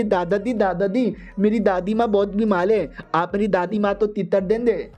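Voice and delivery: lightly voiced five-year-old; a hint of toddler baby talk; little girl. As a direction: lisp it like a small child. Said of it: "देखो छोटी बच्ची थी पाँच साल की".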